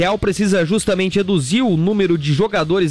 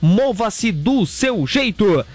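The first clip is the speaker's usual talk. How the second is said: radio ad read. Acted. Reads Hello Move ad. (leitura de comercial de rádio, slogan bem arrastado)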